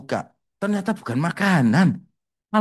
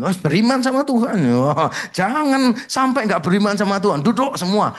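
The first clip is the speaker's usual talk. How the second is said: fervent urging; 5 semitones higher than usual. Retold or imitated. Preacher urging faith, acted quote.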